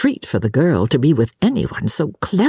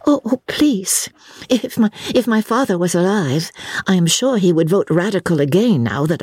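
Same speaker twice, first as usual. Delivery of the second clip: higher-pitched, pleading explanation; earnest young lady protesting; 4 semitones higher than usual. Acted. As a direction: plead your family's case earnestly. Lucy protests.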